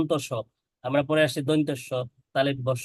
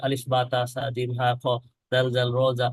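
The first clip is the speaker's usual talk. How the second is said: rushed recitation. Shown as a demonstration. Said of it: "তাড়াহুড়া করে না পড়ে".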